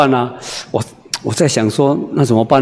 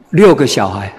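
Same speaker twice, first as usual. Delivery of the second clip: chatty wife; 5 semitones higher than usual. Retold or imitated. Wife answers preacher.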